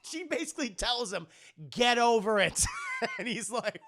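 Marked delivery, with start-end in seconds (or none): 1.7-2.6 loud blunt shout. Retold or imitated. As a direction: bark the order at him. Aunt May's blunt message.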